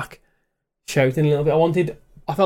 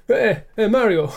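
put-on higher-pitched joking Boston accent; mock Boston accent; 6 semitones higher, slower than usual. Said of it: "needs to be from, like, Boston".

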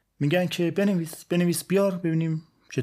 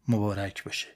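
put-on old father; 5 semitones lower, 4 dB quieter than usual. Father's replies to his excited son.

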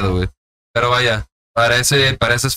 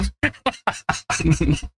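choking laugh; 5 semitones higher, 5 dB quieter than usual. Real, not acted. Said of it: "Te estás poniendo morado".

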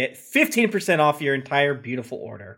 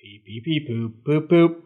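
toy robot voice. Pretend. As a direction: beep like a little toy robot. Robot beeps before outro.

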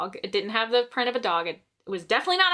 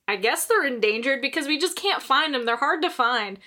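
ordinary talk, nothing marked

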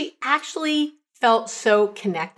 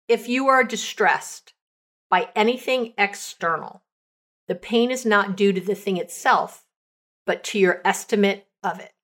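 quote reading. Shown as a demonstration. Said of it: "a final quote from Marcus Aurelius".

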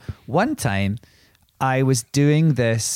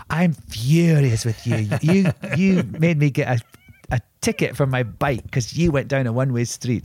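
mock furious; 2 semitones higher than usual. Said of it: "I was like".

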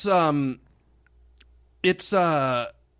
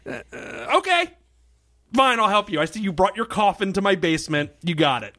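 reluctant doctor; 4 semitones higher than usual. Retold or imitated. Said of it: "the guy goes".

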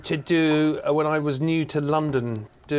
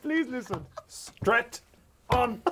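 laughing; 9 semitones higher, 5 dB quieter, much slower than usual. Retold or imitated. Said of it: "He went".

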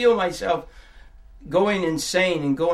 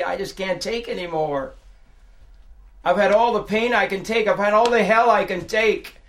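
despairing outburst; 3 semitones higher, 5 dB louder than usual. Retold or imitated. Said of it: "You feel like".

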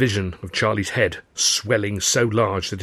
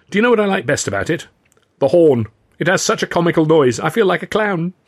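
excited; 8 semitones higher, 6 dB louder than usual. A narrator's reading. Charlie gleefully describing horn.

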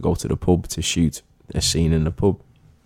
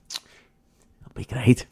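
Shane unbothered; 3 semitones higher, much slower than usual. Retold or imitated. Shane voiced in retold story.

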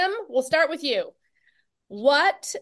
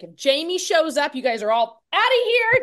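higher and louder, joking urgency; mock frantic order; 4 semitones higher, 4 dB louder than usual. Wife joking to husband about meeting Jamie, mock frantic. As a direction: hustle the family out in fake panic. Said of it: "I'm telling my husband".

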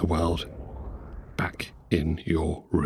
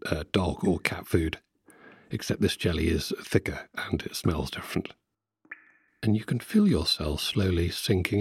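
guided meditation. Acted. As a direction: lull them along like a hypnotist.

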